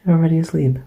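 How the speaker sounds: hushed, soothing voice for a sleeper; close, tender murmur with pauses; tender bedtime comforter. Acted. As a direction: comfort a loved one drifting off to sleep. Comforts a sleeping loved one.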